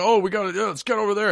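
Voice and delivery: high-pitched imitation of yelling teammates; mock yelling. Imitating shooter teammates who only yell, high mock yelling. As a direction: yell it high, without full volume. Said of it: "They're just, like, yelling".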